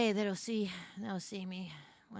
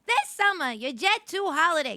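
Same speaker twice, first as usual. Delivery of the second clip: high, loud airline announcer lady; chirpy airplane lady voice; 6 semitones higher, 7 dB louder than usual. Shown as a demonstration. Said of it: "I could do crazy airplane lady voice".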